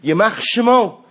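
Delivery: high loud cry. Retold or imitated. Chassid cries out while putting on shoes. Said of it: "what did he cry out".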